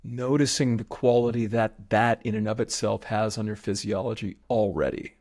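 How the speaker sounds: measured meditation guide with long pauses; even, spacious breathwork instruction; guided breathing meditation. Real, not acted. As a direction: lead them through the breaths, unhurried.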